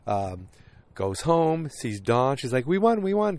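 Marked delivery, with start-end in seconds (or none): 2.7-3.4 high-pitched retold cheer; mock excitement. Wife coming home to her husband, mock-excited high voice. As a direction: lightly imitate someone announcing a win.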